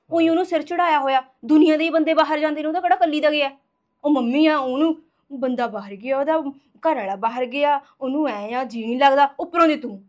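heated complaint, getting loud in bursts. Acted. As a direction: scold him with your voice up. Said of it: "ਹੌਲੀ ਬੋਲ".

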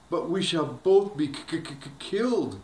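mock terrified stammering lady. A narrator's reading. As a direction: stammer with fear before killed. Terrified stammer over killed.

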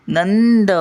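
"नंद." pitched high on a held "नं"; नं वर जोर. Shown as a demonstration. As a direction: lift "नंद." up high and lean on the nasal. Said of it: "न वर येणार". ("नंद." उंच स्वरात, नं उचलून)

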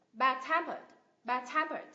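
"Bad-tempered" as bad-TEM-pered; teacher's model of "bad-tempered", weight on TEM; stress on second part. Shown as a demonstration. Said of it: "nhấn vào thành phần thứ hai".

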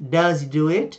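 "Does he do it?" run together, "does he" as "dazi"; linked native speech. Shown as a demonstration. Teacher showing how native speakers link the words, run together. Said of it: "Thì chúng ta sẽ nghe như thế này".

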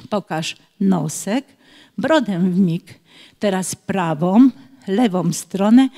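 measured, rhythmic rhyme with small pauses; children's poem reading. Acted. Teacher reads a speech-exercise rhyme, measured poem recitation. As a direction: recite an instructional rhyme line by line.

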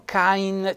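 "cain" with an audible I before the N; with an added I. Shown as a demonstration. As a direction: sound out CAIN slowly with the I. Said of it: "ci mettono una I".

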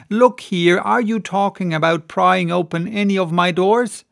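indignant landlady protecting her doors; landlady scolding. Acted.

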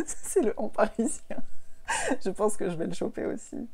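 mock podcaster "en" ending; Parisian "en". Shown as a demonstration. Podcaster demonstrates the Parisian "en" ending. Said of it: "elles font un petit «en»".

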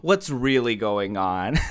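lightly voiced auntie, slow and prying; a hint of prying auntie; nosy auntie. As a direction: draw it out like an auntie after gossip. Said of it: "I'm the auntie who's like".

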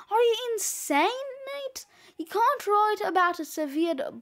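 high, fast, aghast yelp; incredulous outburst. Acted. Friend yelling at Nate about his gory book, incredulous. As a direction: cut him off in disbelief.

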